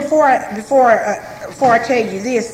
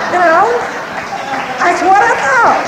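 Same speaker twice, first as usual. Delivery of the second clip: laughing; 6 semitones higher, 4 dB louder than usual. Real, not acted. Laughs at her own naivety.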